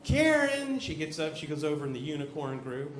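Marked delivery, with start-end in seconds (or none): 0.0-0.8 loud high call of Bobby; teacher's roll call. Retold or imitated. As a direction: call the name across the classroom. Teacher calling kids to groups.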